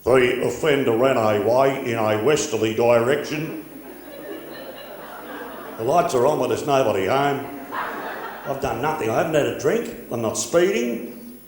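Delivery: a hint of a flat police spokesman; police officer voice. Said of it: "the cops".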